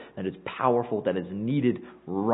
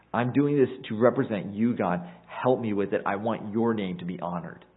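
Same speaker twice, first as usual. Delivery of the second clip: humble sincere prayer. Retold or imitated. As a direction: pray it humbly, a servant offering himself. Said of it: "He's saying".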